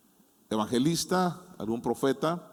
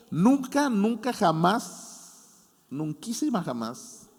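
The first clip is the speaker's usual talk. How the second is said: NUNCA pitched high, JAMÁS stretched out long; emphatic never; 6 semitones higher, much slower than usual. Real, not acted. Preacher assuring the congregation God never failed them, emphatic drawn-out nunca.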